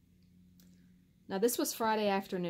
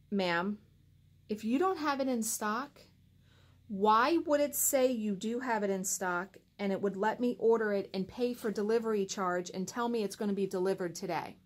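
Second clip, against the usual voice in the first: retold firm challenge, short of rude; mildly testy, pressing for an explanation; not very nice. Customer questioning the store employee, not very nice. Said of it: "didn't say it in a very nice voice".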